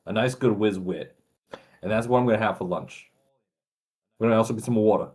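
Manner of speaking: put-on Philly accent. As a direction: lean a little into a Philly accent. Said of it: "you did the water part fine".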